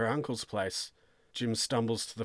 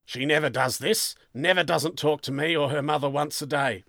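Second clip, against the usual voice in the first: insistent, higher and a bit louder; agitated father; 4 semitones higher, 4 dB louder than usual. Acted. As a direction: press the point as a worried dad. Worried father of missing daughter.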